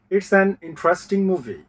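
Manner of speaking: It's an interesting movie said very slowly, each syllable clear; slow teaching demo. Shown as a demonstration. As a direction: spell out the sentence slowly for the class. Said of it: "এক, দুই, তিন, চার". (ধীরে ধীরে syllable আলাদা করে)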